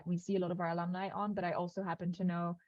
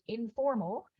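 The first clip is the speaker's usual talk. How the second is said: "informal" said as a separate, emphasised word; stress on informal; 3 semitones higher than usual. Real, not acted. Organiser underlining the unconference's tone to participants, emphatic "informal". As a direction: press home the word "informal". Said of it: "I stress that word".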